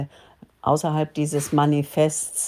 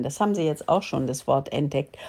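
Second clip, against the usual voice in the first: normal talking voice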